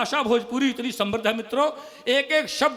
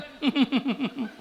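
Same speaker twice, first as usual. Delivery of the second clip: weak giggle; 3 dB quieter than usual. Pretend. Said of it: "ये तो मौगनमा हंसी है".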